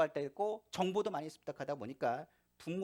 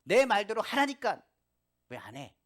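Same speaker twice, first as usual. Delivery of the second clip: mock angry parent shout; 6 semitones higher, 10 dB louder than usual. Parent yelling at a child who talks back, mock anger. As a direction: play the parent losing their temper at a defiant child. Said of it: "화를 냅니다".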